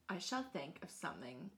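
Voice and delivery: low, unvoiced menacing whisper; sinister whisper. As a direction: hiss the threat quietly. Queen plotting.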